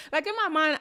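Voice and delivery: loud and high, words through laughter; laughing. Real, not acted. Still laughing about the blind guide. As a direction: keep laughing as you speak.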